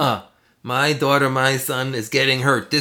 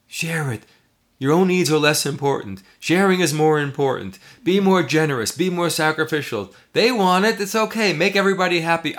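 higher, coaxing inner voice; 5 semitones higher than usual. Retold or imitated. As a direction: urge like a nagging conscience. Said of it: "the ghost in the background says".

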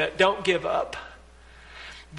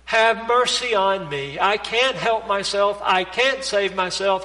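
blind man's slow pleading cry to Jesus, lightly voiced; a hint of a desperate beggar calling out; crying out for mercy; 2 semitones higher than usual. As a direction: beg for mercy as the blind man would. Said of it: "he cried out and said".

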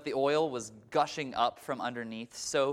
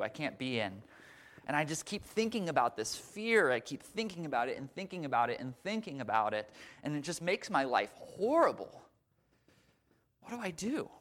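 a touch of mock trembling, fretful patient; 2 semitones higher than usual. Anxious patient telling the therapist her fears, mild trembling voice. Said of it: "the woman kinda trembles and says".

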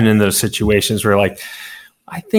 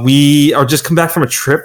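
put-on New England accent; 2 semitones higher than usual. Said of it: "That's my best, uh, New England accent".

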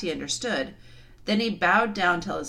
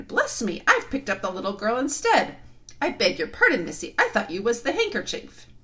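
muttering giant; 5 semitones higher, 4 dB louder than usual. Acted.

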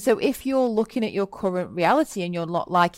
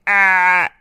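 blaming whine; 4 dB louder than usual. Retold or imitated. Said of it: "kind of energy".

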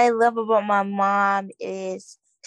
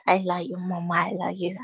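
tender; 4 semitones lower, 6 dB quieter than usual. Real, not acted. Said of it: "before I get emotional".

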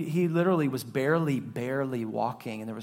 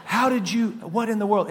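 high, loud, laughing "what?!"; laughing disbelief; 7 semitones higher, 7 dB louder than usual. Retold or imitated. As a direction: caught off guard and cracking up. Parents shocked toddler walks out.

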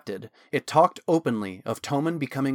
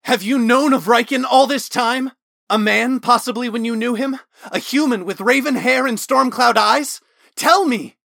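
frantic, very high and loud demand; manic yelling; 11 semitones higher, 7 dB louder than usual. Acted. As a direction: yell it, grabbing him across the table. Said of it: "he yelled at the Uldani".

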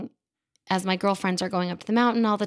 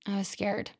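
a quiet, real confession of fear; quiet admission; 7 dB quieter than usual. Real, not acted. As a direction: let it fall away quietly, almost to yourself. Repeats "I was scared" quieter.

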